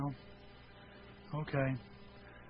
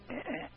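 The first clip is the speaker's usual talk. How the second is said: hard drive noise; 7 semitones higher, 9 dB quieter than usual. Retold or imitated. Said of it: "my hard drive would go".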